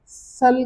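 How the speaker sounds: सल said slowly, final l sounded; slow सल with a clear l; French seul. Shown as a demonstration. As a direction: draw out सल and keep the l. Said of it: "तो इसको आप".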